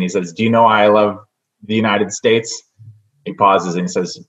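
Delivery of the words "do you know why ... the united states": put-on Haitian accent. Telling his Haitian friend's joke, in a light Haitian accent. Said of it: "in his Haitian accent".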